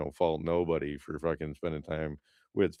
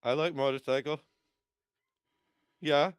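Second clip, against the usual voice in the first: much higher, dim eager voice; mock dopey fan; 9 semitones higher than usual. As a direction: play a starstruck airhead. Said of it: "I'm like".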